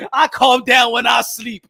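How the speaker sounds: shouted back, punchy and proud; loud retort. Real, not acted. Boxing streamer shouting back at the chat. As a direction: yell it to the people telling you to relax. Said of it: "I'm still yelling".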